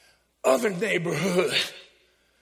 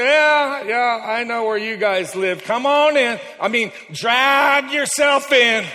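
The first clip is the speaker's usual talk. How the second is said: calling out; 3 semitones higher, 7 dB louder, slower than usual. Acted. Jesus calls in the stragglers.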